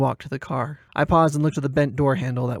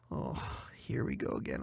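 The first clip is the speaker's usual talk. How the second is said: 1 weary inner whisper; 12 semitones lower, 13 dB quieter than usual. Acted.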